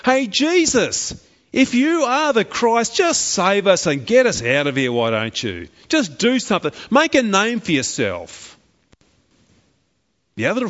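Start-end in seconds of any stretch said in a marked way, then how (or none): 0.0-8.5 angry railing. Acted. Criminal on the cross taunting Jesus, angry jeer. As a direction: sneer it like a mocking criminal. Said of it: "railing at him in an angry way".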